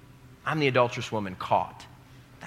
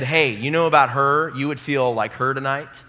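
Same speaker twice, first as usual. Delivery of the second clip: loud public call-out, raised pitch; mock accuser; 2 semitones higher, 7 dB louder than usual. Preacher mimics an accuser exposing her shame, loudly. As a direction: shout the secret to the room.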